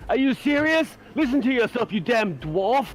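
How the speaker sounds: heated, incredulous rebuke; incredulous anger. Acted. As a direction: scold the dwarf in disbelief. Acted quarrel over fighting captains.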